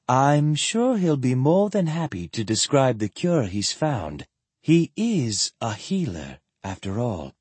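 lightly voiced, smooth reassurance; composed sister.

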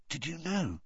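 put-on hushed, serious boy; whispered. A narrator's reading. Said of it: "he whispered".

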